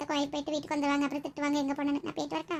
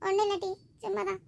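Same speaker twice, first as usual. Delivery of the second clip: tearful; 4 semitones higher than usual. Acted. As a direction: play down the crying in a higher voice. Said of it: "ஏன் சாந்தி அழுவுற?". (அழுகையை அடக்கியபடி)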